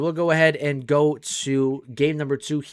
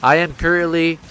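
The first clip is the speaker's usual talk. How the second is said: close-mic handheld voice; mic close to mouth; 4 dB louder than usual. Real, not acted. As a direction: speak right into the mic. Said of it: "holding the mic up to my mouth".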